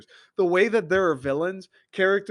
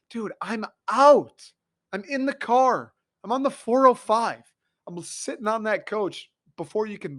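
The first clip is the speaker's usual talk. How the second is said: high, loud, frantic bailing out; panicked escape; 6 semitones higher, 4 dB louder than usual. Pretend. Viewer imagining fleeing the boss in a loud, high panic. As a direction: blurt it like you're already running.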